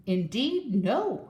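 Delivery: a proud, scoffing refusal; haughty giraffe scoffing. Acted. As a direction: scoff down at the little bird. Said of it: "scoffed the proud giraffe".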